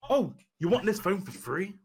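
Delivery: low, menacing wrestler build-up; promo mode. Acted. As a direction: start the threat low and measured. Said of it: "I just go promo mode".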